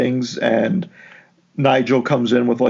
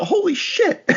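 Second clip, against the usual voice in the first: mock surprise. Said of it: "I thought".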